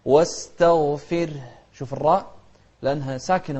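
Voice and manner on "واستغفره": واستغفره chanted with a thin t; light ta. Shown as a demonstration. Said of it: "مرققة".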